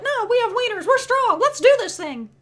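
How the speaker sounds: high, hammed-up bravado; mock the boys' tough talk; mock macho bros.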